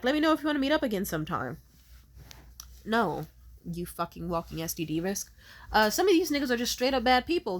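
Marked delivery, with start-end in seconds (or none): 0.0-1.6 mocking casual guy. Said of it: "still had the nerve to be like".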